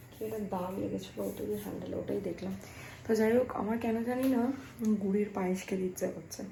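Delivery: hushed so as not to disturb the gamer beside her; talking quietly. Real, not acted. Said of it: "আমি আস্তে আস্তে কথা বলছি". (আস্তে আস্তে, নিচু গলায়)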